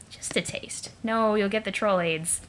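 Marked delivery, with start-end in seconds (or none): 0.1-0.9 tempted secret whisper. Acted. Tempted, sneaking a sip.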